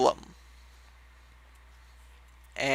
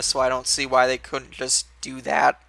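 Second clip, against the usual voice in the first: voice cracking. Real, not acted. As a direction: voice briefly cracking. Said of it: "Voice cracked for a second".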